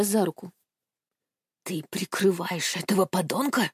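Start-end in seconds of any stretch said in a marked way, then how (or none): 1.6-3.7 furious whisper. A narrator's reading. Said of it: "яростно прошептал он".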